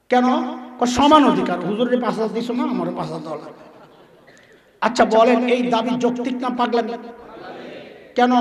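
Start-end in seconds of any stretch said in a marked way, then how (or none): 0.9-3.5 mocking voice. Voicing the women's rights demand.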